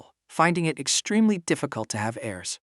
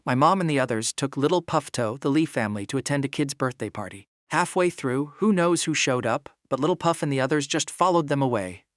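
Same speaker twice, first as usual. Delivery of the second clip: muffled voice. Acted. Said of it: "said in a muffled voice".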